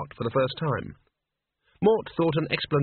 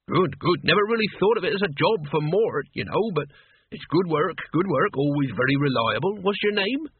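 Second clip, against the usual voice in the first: chatty father; 3 semitones higher than usual. Acted. Narrator voices chatty father Lezek.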